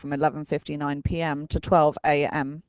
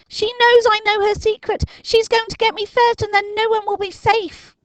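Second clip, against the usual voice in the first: panicking Dinking; 7 dB louder than usual. A narrator's reading. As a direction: spell out the danger in horror. Dinking voiced, high, far.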